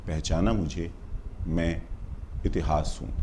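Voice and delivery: low, soft poetic aside with pauses; hushed refrain. Acted. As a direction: drop right down and let each phrase hang. Soft refrain of recited poem.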